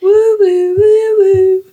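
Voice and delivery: high, gleeful "woo woo" cheer. Real, not acted. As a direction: whoop it up for the milestone. Celebrating week fifty.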